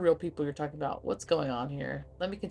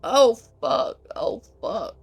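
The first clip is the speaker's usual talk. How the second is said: high, loud startled curse; real jolt as the phone drops; sudden shocked swearing; dismayed surprise; 8 semitones higher, 9 dB louder, much slower than usual. Real, not acted. Phone falls mid-stream.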